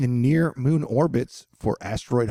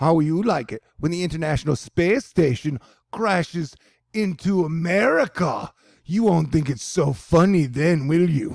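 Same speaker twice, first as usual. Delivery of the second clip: taunting, hammy put-on Russian accent, pitched up; 5 semitones higher than usual. Retelling what the head Russian said about the space station, in a Russian accent. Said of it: "I just like my Russian accent".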